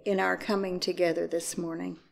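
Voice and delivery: measured, solemn call to worship; liturgical invocation. Acted. Minister opening the morning service, in a solemn prayer voice.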